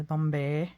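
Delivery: Bombay said as "Bom-bear" with a lilting rise; playful pronunciation. Shown as a demonstration. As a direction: roll out Bombay like "pum-bear", rising at the end. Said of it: "I don't know why I have to say it like that".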